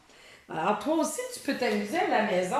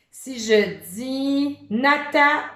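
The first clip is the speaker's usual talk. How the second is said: Nata called out louder and higher, cut short; clipped word; 4 semitones higher, 7 dB louder, slower than usual. Shown as a demonstration. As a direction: stop hard before the missing syllable. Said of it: "j'ai enlevé une syllabe".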